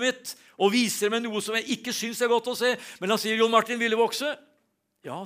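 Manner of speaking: preacher lifting his voice on growth in God's will; preaching. Acted. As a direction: drive the point home to the congregation. Preaching application, raised voice.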